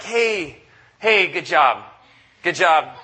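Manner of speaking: a coach brushing off a blowout loss, mock cheery. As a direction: play the coach who hands out hollow compliments. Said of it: "when you come off the field is like".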